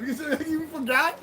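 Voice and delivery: laughing at a viewer who forgot; laughing question. Real, not acted. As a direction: chuckle mid-question, amused.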